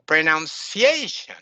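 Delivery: stretched stressed a in pronunciation; correct example. Shown as a demonstration. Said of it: "It's pronunciation".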